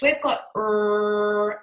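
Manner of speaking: English R, tongue lifted, slow. Shown as a demonstration. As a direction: sustain a long English R. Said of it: "because in English".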